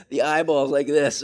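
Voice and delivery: usual speaking voice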